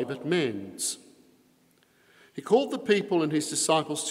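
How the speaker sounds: solemn liturgical proclamation; gospel reading. Acted. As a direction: read it out like Mass.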